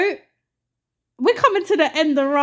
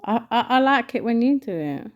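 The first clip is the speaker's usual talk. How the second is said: nice and sensual. Real, not acted. Co-host coaxing host to do the sign-off, lightly sensual. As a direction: coax sweetly, with a touch of sensuality. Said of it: "Since you said it so centrally and nicely".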